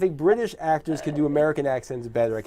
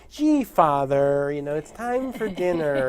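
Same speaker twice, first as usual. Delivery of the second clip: put-on slow, artificial American accent; over-careful mock American accent, as a British actor; British actor's American accent; 4 semitones higher, slower than usual. Mocking British actors on screen, stilted American accent. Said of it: "actors who are British trying to speak in American accent".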